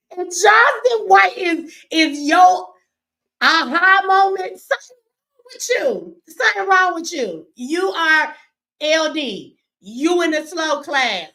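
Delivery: high, loud, drawn-out mocking rebuke; incredulous telling-off, pushed up high and loud; loud scolding. Real, not acted. Berating viewers who admire him.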